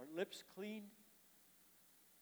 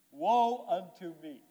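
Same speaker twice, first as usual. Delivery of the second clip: loud, slow cry of dismay; loud, drawn-out lament; dramatic cry; 9 dB louder, slower than usual. Acted. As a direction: cry it out as a man undone. Isaiah's cry in throne room.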